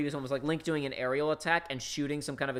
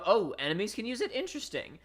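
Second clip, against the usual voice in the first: higher-pitched light surprise, then interest; mock intrigued; 5 semitones higher, 4 dB quieter than usual. Viewer learning enemies can use it, mock intrigued. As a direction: act out a viewer's intrigued reaction. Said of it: "You go".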